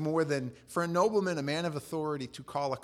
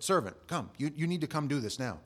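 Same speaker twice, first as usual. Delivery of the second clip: bossy; 3 semitones higher than usual. Acted. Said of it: "you call for a servant".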